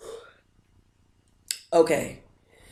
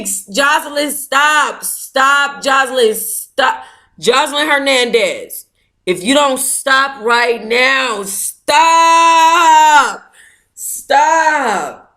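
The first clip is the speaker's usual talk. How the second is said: scolding call; 5 semitones higher, slower than usual. Real, not acted. Scolding Jocelyn to stop.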